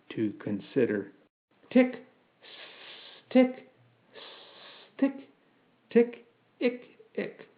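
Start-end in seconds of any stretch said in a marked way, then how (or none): 1.7-7.5 high clockwork ticks; spaced high ticks, fading away; mechanical ticking. A narrator's reading. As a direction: tick slowly as if considering. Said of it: "He ticked".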